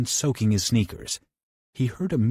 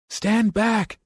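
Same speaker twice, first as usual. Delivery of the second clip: higher, louder warning call; 12 semitones higher, 4 dB louder than usual. Acted. Johnny warns Bobby before striking the wall, loud call. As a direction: warn him loudly. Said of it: "he called".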